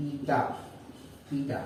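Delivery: "ইটা" said as ee-ta; pronouncing ETA. Shown as a demonstration. Teacher shows students how the symbol is pronounced, "ইটা" as ee-ta. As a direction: say "ইটা" as two separate syllables, ee-ta. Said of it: "এটার উচ্চারণ হচ্ছে".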